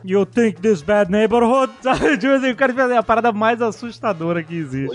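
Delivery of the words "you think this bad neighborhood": slow, mock-menacing Russian accent; deliberate, threatening fake Russian accent. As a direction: draw it out like a scary stage Russian. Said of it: "tem que ser a voz assim".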